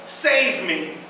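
acted plea of a drowning man; crying out for help. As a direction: call out high and loud, stretching each word. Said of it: "he cries out to Jesus".

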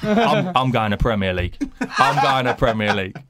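laughing quote. Retold or imitated. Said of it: "was like".

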